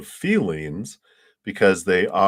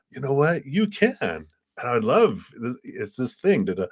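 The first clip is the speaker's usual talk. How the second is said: eager boss; 6 semitones higher than usual. Retold or imitated. Boss voiced with excitement.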